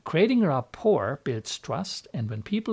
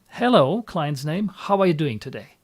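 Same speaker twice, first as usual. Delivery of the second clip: simple smiling greeting; 4 dB louder than usual. Shown as a demonstration. Hypnotherapist greeting a client at the call's start, simple smiling hello. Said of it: "smile and say simply".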